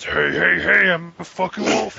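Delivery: imitated wolf-hat guy. Storyteller mocking a guy in a wolf hat, hammed-up voice. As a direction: mimic a man playing at being a wolf. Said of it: "in a fucking wolf hat walks down and goes".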